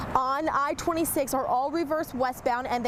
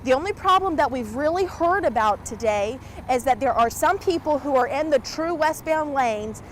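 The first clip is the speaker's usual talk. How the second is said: raised voice over the wind; shouting over wind; 4 dB louder than usual. Real, not acted. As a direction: project loudly against the gusts. Reporter outdoors in storm wind.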